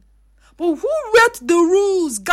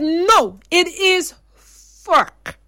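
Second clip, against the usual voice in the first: "it is fuck" drawn out slowly with a falling end; slow firm correction; much slower than usual. Retold or imitated. A mother correcting her daughter's word. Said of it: "And I said".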